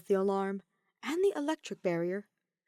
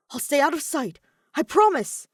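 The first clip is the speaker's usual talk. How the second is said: higher, louder hurried assurance; urgent promise; 8 semitones higher, 10 dB louder than usual. Acted. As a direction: call back reassuringly while hurrying off. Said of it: "did not look convinced".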